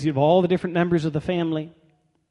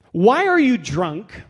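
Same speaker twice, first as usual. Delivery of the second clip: loud, slow, higher-pitched reproach; drawn-out, hammed-up accusation; mock accusing priest; 5 semitones higher, 5 dB louder, slower than usual. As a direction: confront her as a tactless priest. Acts out the tactless priest's accusation.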